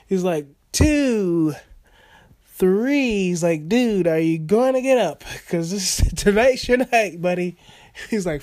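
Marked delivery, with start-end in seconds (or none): 0.7-3.2 raised, louder mock ref count; referee's count. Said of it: "the referee just counting". 3.7-7.6 imagined referee. Retold or imitated. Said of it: "the referee just counting".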